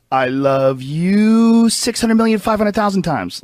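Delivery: put-on high, slow, sing-song little kid gushing; imitating a child entity's loving voice; childlike voice. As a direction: coo it like a small child saying it to a parent. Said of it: "something like a kid would say".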